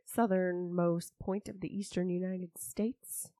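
hushed mock-proper delivery; put-on voice. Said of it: "Can't keep that shit up".

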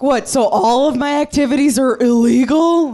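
high, fast indignant man's whine; mock a man outraged he can't do anything; whiny guy. Comic mocking a complaining man, high whine. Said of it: "you're like".

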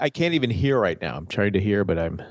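blocked nose, nasal voice; stuffy nose from a cold; congested. Real, not acted. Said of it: "all congested".

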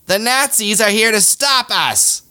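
high, slow megaphone yell; mock rally yell into a megaphone; maga guy on a megaphone. Maga guy yelling to the crowd, high and slow. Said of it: "A maga with a megaphone goes".

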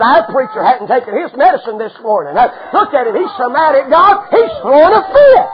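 mocking gossip. Deacons mocking Moses.

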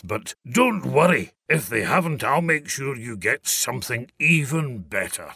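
a lightly voiced cheery Father Christmas; jolly Santa. A narrator's reading. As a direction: reassure the boy kindly. Santa reassuring Peter.

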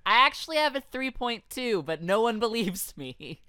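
lightly voiced booth model; booth babe. Cohost plays a booth babe confiding her grades, lightly voiced booth babe.

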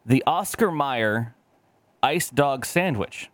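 slow, drawn-out product announcement; dramatic reveal. Pretend. Announcing the Oscar Mayer product to friends, slow and grand. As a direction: unveil it like a big ad. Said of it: "ad-style reveal".

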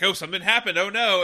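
hammed-up alarm; alarmed cry.

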